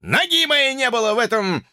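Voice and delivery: high, offended tramp voice; indignant tramp. Acted. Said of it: "вскричал Эль Нумеро Уно".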